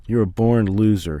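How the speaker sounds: harsh insult. Acted. Father insulting son.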